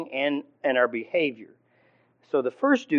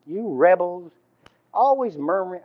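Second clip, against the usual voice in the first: angry Moses; 6 semitones higher than usual. Retold or imitated.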